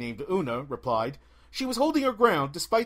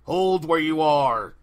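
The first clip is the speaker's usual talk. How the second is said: slow, louder command from the bandit chief; demanding bandit leader; 6 dB louder, slower than usual. Acted. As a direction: halt the girl like a bandit boss. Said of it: "the bandit leader demanded".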